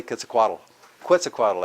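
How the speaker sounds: Quetzalcoatl as ket-sa-KWA-tul, then kwet-sa-KWA-tul; professor's mispronunciation. Retold or imitated. Teacher quoting a professor at UCLA, professor's mispronunciation. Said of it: "I had a professor at U C L A".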